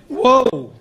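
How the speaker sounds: high-starting mock Italian-American accent. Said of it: "heard an Italian person say this phrase".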